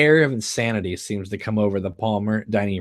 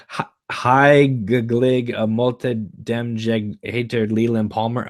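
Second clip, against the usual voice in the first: mock Norwegian; 2 semitones higher, slower than usual. Father shows off his Norwegian phrase, mock Norwegian. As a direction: fake your way through mock Norwegian with a grin. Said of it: "Leland, suddenly speaking Norwegian".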